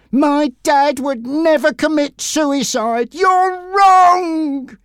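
high, loud protest with NEVER stressed; shouted. Acted. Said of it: "he shouted".

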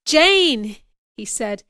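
high, loud call of the name; urgent call. A narrator's reading. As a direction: call out to stop her. Urging a struggling woman.

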